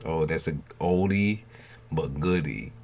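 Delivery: ordinary delivery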